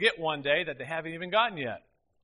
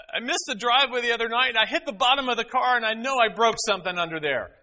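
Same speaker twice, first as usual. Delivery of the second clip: imitating daughter; 9 semitones higher, 7 dB louder than usual. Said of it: "she tells me".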